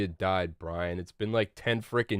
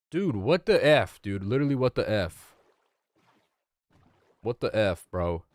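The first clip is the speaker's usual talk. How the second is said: frustrated; 3 dB louder than usual. Real, not acted. Frustrated outburst at game.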